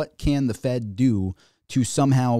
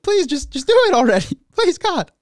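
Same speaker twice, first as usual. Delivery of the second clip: hammed-up begging child, much higher and louder; mock crying kid; 6 dB louder than usual. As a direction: plead like a desperate little kid, squeaky and loud. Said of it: "the kid's just sitting there crying".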